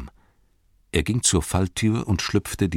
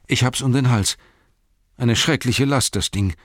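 lightly raised, loyal servant voice; a faithful hobbit, humble and earnest; Sam's voice; 4 semitones higher than usual. Acted. Sam speaks in audiobook.

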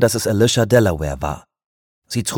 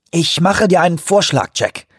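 barely controlled anger; 8 semitones higher than usual. A narrator's reading. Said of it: "sagte er mühsam beherrscht".

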